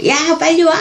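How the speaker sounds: high-pitched mock shout; imitated yell. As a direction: imitate a mother calling out to hurry someone along. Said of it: "막 소리를 지르고".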